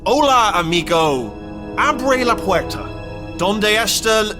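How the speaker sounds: slow, deliberate phrasebook Spanish; trying Spanish. Acted. Robot guessing the sleeper speaks Spanish, slow and careful. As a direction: spell it out slowly for a possible Spanish speaker. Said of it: "Could be Spanish".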